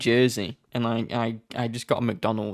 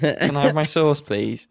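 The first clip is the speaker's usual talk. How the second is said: a slightly louder, posh-ish British request; British accent; 3 semitones higher, 4 dB louder, slower than usual. Shown as a demonstration. Retelling a McDonald's order, doing the British accent on request. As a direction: ask politely, very English. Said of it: "Say that again".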